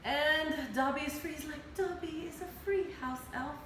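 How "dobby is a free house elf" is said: lightly high little elf voice; a happy tiny elf announcing freedom; squeaky house elf. Retold or imitated.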